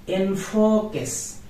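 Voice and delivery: enfoques said slowly as enfokes, with qu as k; correct enfoques. Shown as a demonstration. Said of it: "not enfoques".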